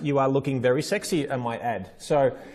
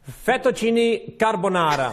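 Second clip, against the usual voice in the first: slow, higher, hammed-up Italian; mock Italian accent; 5 semitones higher, slower than usual. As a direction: play up the Italian for a laugh. Joke attempt at Italian greeting.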